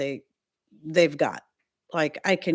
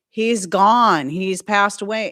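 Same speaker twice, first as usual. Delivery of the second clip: emphatic; 6 dB louder, slower than usual. Retold or imitated. Retelling pleas to phone company.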